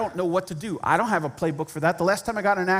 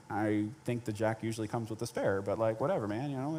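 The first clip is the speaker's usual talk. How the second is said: softer dismissive grumble; pissy inner voice; 6 semitones lower, 9 dB quieter than usual. Retold or imitated. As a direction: mutter it like you can't be bothered. Retells his irritated inner reply.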